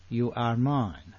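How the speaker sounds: tender repeat. Acted. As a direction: say it gently like a promise. God's words repeated softly.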